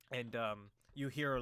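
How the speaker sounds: ordinary talk, nothing marked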